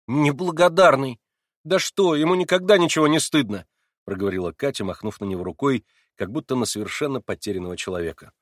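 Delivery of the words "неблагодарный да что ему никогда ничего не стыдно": indignant. A narrator's reading. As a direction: spit it out in disgust. Katya dismisses Alyosha. (с негодованием, громче)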